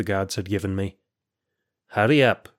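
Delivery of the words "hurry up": urging. Acted. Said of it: "urged Kalai".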